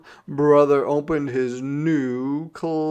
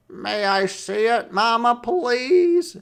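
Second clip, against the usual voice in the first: pleading brother; 11 semitones higher, 6 dB louder than usual. A narrator's reading. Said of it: "asked Brother".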